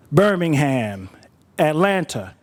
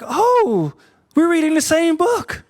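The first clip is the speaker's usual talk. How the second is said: much higher, laughing delight; thrilled at the coincidence, laughing; delighted surprise; 10 semitones higher, slower than usual. Retold or imitated. Woman discovers shared book.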